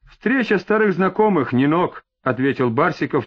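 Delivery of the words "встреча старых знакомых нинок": ordinary delivery, nothing marked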